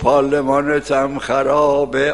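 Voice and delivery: پارلمانتم خرابه drawn out very slowly and loudly, each syllable stretched; old-style preacher delivery. Retold or imitated. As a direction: preach it slow so it carries without a loudspeaker.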